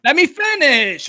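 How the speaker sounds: firm, slow plea to be heard; slow insistent demand. Real, not acted. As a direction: hold the floor, drawing out let me finish. Host insists on finishing his point.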